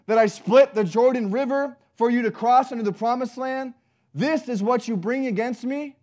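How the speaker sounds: loud, high, incredulous rebuke from God; indignant God. Acted. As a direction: throw their complaints back at them, sharply. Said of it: "God is literally saying".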